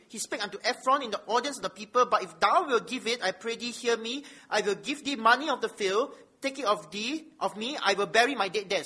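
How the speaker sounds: measured public reading of holy text; scripture reading. Acted. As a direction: read it out firmly to the congregation, weighting key words. Reads scripture aloud.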